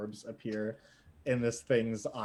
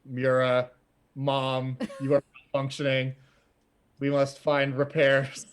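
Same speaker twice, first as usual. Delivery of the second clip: booming voice; 4 dB louder than usual. Acted. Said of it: "booming voice".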